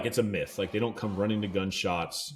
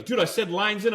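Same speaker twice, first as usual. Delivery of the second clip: much higher, exasperated mock scold; annoyed captain; 10 semitones higher than usual. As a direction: imitate the guide telling you off. Captain scolding the late reel-in.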